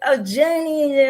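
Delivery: a teacher gently calling a student by name; teacher's voice. Retold or imitated. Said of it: "my teacher was like".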